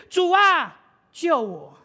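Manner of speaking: 主啊 yelled high and loud, then 救我 dropping; desperate cry. Retold or imitated. Rider at the cliff edge cries out to God, a loud desperate yell. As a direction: shout for the Lord to save you at the cliff edge. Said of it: "他就突然喊一句".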